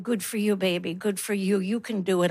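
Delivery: soft, low, tender coaxing; tender encouragement. Retold or imitated. Mother softly encouraging her premature baby, tender and low. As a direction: murmur it gently to a tiny baby. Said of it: "I encouraged her and I said".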